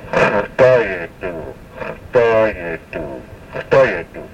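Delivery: Khtayetu with a throaty kh like German ach; guttural opening. Shown as a demonstration. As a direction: repeat Khtayetu starting deep in the throat. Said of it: "It starts with a guttural sound".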